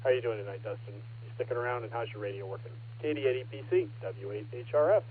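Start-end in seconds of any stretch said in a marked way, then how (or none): 3.0-5.0 talking through a mouthful of food; mouth full. Real, not acted. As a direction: callsign with food still in mouth. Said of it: "Caught me with my mouth full there".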